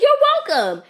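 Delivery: high and loud pointed reply; loud you're welcome. Retold or imitated. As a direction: say it loud so she hears. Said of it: "I'm like".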